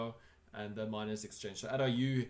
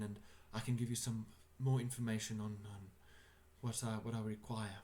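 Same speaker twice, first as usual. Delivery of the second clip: put-on English accent. An English-accented host begs the party to visit. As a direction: plead for help in an English accent. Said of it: "That accent was flawless".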